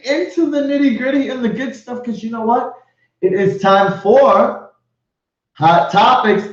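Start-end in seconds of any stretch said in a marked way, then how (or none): 3.2-6.5 slow, drawn-out emcee build-up; hyped announcer intro. Acted. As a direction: stretch each word to hype the segment. Host hyping segment and co-host.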